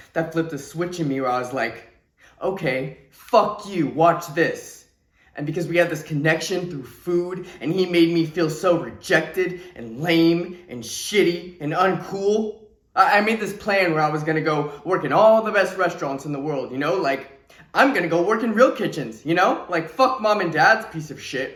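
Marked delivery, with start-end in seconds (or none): 2.4-4.8 defiant. Retold or imitated. Telling the group how a switch flipped, defiant. Retold moment of defiant resolve. 17.7-21.6 defiant. Retold or imitated. Recounting the plan to outdo a brother, defiant. Retold angry plan to prove himself.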